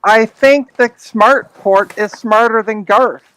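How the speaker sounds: spelled out slowly, word by word; slowed down as if for someone slow. Acted. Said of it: "Should I say this slowly for you?".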